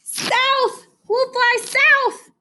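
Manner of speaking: high, slow honking goose voice; honking geese. Acted. Geese announcing their flight south, high honk. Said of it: "honked the geese".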